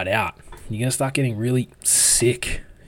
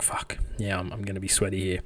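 anxious under-the-breath whisper; a sweaty, panicky aside to himself; nervous whisper; 6 dB quieter than usual. Retold or imitated. Nervous inner thought before confessing.

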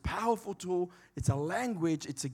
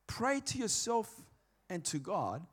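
hushed, as if praying privately; slow, softened private delivery; not really loud; 3 semitones higher, 8 dB quieter, slower than usual. Shown as a demonstration. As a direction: drop to a soft voice, to yourself. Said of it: "So I won't say it really loud".

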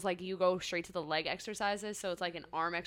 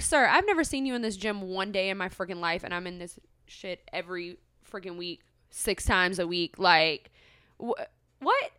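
imagined indignant retort. Retold or imitated. Retold imagined retort to gym guy.

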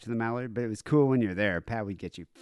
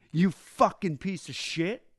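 mock-drunk snarling insult, higher and slow; drunken insult; 7 semitones higher, slower than usual. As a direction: spit it out like a wasted has-been. Drunk rocker rants at bartender.

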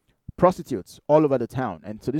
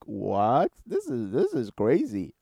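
drawn-out disbelief with a jumping pitch; incredulous reaction; 2 semitones lower, slower than usual. Retold or imitated. Viewer reacting to outrageous talk-show confessions, incredulous. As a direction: act out a stunned viewer's disbelief. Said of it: "you're like".

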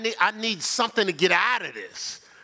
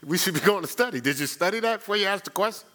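challenging questions; faster than usual. Retold or imitated. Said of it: "but I'm gonna say".

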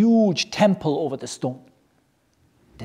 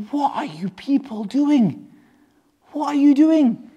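lightly voiced cow, higher and baffled; puzzled cow; 7 semitones higher than usual. Teacher lightly voicing a confused cow to the class. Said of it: "That cow is saying that".

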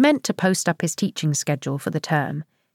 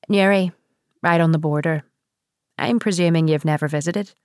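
put-on Northern Irish accent. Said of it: "Northern Irish".

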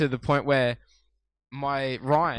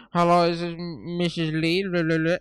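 bad Italian accent; 5 semitones higher, 5 dB louder than usual. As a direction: overdo a cheap Italian accent on the phone. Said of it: "I'll do a really shit accent".

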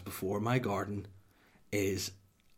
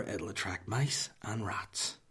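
slow and quieter, each word spelled out; warning his wife slowly about the fat balls, deliberate; 5 dB quieter, much slower than usual. Retold or imitated. Warning his wife about mice, slow and quiet. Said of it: "and I quote, were".

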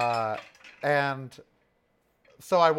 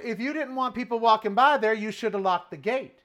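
raised, higher pointed retort; retold raised voice; 9 semitones higher, 3 dB louder than usual. To the guard, a raised pointed comeback. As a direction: call him out loudly. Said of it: "I said".

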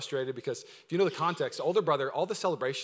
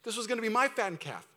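higher-pitched, indignant complaint; frustrated older brother; 7 semitones higher than usual. Acted. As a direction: protest the unfairness without shouting. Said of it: "justified why he's so frustrated".

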